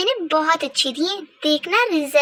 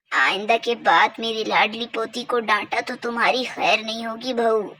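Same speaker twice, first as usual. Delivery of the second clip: lightly voiced grandmother; 4 semitones lower than usual. Grandmother defending her granddaughter to the daughter-in-law, a lightly lowered old voice. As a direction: scold the daughter-in-law gently as an indulgent old granny.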